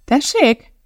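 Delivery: high, startled question; surprised. Acted. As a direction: caught off guard, disbelieving. Shocked reaction to accusation. (meglepett, magas felkiáltás)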